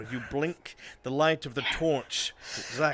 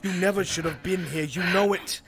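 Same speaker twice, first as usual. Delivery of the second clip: faster and louder toward the climax; building dread; 4 semitones higher, 4 dB louder than usual. Acted. GM pressing the panicking character, building louder. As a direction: crank the tension higher line by line.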